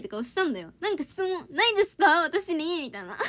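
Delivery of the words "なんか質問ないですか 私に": raised, louder put-on eagerness, asking to be quizzed; a hammed-up hopeful look in the voice; mock eager question. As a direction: play the keen auditionee begging for a question. Acting her own eager audition face.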